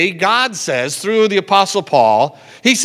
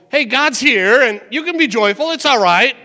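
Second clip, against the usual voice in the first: higher, upbeat encouragement; higher cheerful reassurance; bright reassurance; 6 semitones higher than usual. Acted. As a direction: lift them up cheerfully.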